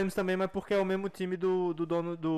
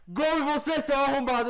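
put-on taunting girlfriend; 6 semitones higher, slower than usual. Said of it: "só vi as mensagens".

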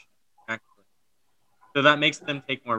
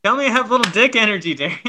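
insistent demand; 6 semitones higher, 6 dB louder, faster than usual. Real, not acted.

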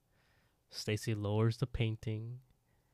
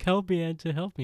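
mock desperate plea; 7 semitones higher, 5 dB louder, faster than usual. Retold plea banging on neighbour's door.

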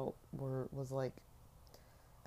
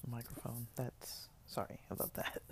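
whispering; 2 semitones lower, 6 dB quieter than usual. Real, not acted. Whispered apology after loud sip.

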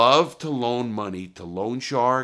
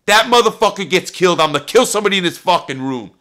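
furious high shout, racing onward; shouted threat; 11 semitones higher, 12 dB louder, faster than usual. Retold or imitated. Armed man warning mobsters before storming out, furious shout. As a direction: threaten the whole room at full volume.

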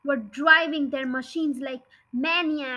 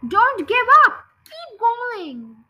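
a higher, louder shout that fades on the second cry; 8 semitones higher, 8 dB louder, slower than usual. Acted. Farmer shouting at his men from the tractor, loud. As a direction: yell it out to urge the men on. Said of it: "the fat bogus shouted".

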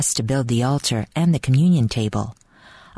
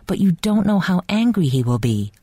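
pleading; 6 semitones higher than usual. A narrator's reading. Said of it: "Ivan pleaded".

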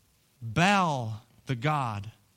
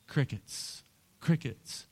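hushed crickets; 5 dB quieter, slower than usual. Acted. Silence after false prophets pray.

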